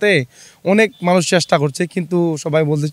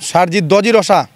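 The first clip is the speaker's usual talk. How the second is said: slow word-by-word reversal; backwards speech; 3 semitones higher, 3 dB louder, slower than usual. Shown as a demonstration. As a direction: work out the backwards word slowly. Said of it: "আপনি তো শব্দ উল্টো করে বলতে পারেন".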